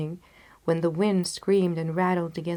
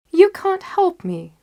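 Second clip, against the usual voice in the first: higher, louder, slow Holmes; Holmes firm; 12 semitones higher, 11 dB louder than usual. Acted. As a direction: shut him down kindly but firmly. Holmes voiced.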